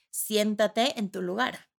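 slow, calm, firm order; firm neutral tone. Shown as a demonstration. Mother to child, calm firm pilot tone. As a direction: say it like a steady pilot. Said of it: "Es un tono firme y neutral".

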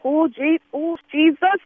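rising frustrated cry; exasperated Jesus. Acted. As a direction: call out to Jesus, fed up.

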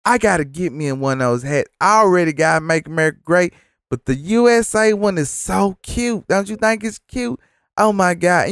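high, gushing imitation of a starstruck fan; mock a giddy woman cooing over a hat; high, gushing impression of the McDonald's lady swooning over a Trump hat. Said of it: "And so she say".

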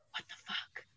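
imitating a child whispering to herself; hushed, voiceless mutter to oneself; quiet whisper. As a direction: whisper it under your breath, barely audible. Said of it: "like, really quietly whisper to herself".

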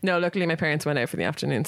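ordinary talk

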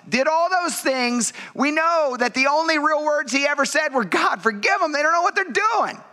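high, impassioned preaching; preaching at full force. Acted. Pastor urging congregation about Jesus' suffering, impassioned preaching. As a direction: pour it out to the church.

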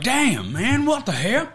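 high, squeaky mock disbelief; mock shock. Friend replaying his shocked reaction, high and squeaky. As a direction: pitch way up in fake outrage. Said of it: "You're like".

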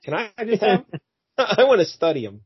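lightly voiced wheedling doctor; smarmy doctor. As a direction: coax the cops like a sly scientist. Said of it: "he says".

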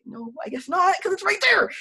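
high protest building to a squeal; argue, then burst into a loud mock shriek; retold exasperation. Exasperated argument with dad.

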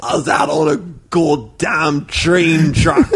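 slow British slipping toward hillbilly; drawn-out, badly held British accent; mock British accent. Cohost telling a yarn, slipping British accent. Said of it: "slowly transitioning into a hillbilly".

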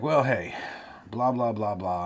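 high, loud, breezy mock pitch; mock interviewer. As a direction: rattle it off like a recruiter's spiel. Mocking an interviewer's job pitch.

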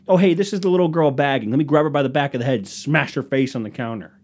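mock the customer with an over-eager offer; sarcastic mock offer.

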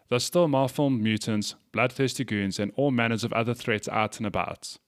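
podcast host reading a game ad; sponsor ad read. Real, not acted. Host to podcast listeners, plugging a game, scripted ad read. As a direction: sell it as a scripted sponsor spot.

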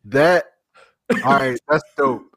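breathless from laughing; gasping after a laugh; out of breath. Real, not acted. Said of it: "I gotta catch my breath".

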